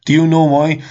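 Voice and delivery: insistent repeat. Real, not acted. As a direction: push the question harder.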